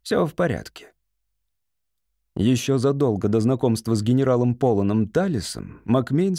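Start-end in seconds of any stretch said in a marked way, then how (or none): 0.0-0.9 higher, gentle comforting tone; a touch of tenderness, lifted voice; soft reassurance. A narrator's reading. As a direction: reassure lightly and softly. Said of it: "мягко отозвался Талис".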